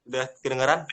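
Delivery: choppy call audio breaking up; words dropping out over the line; bad connection. Real, not acted. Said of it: "Kedengeran, tapi putus-putus sih".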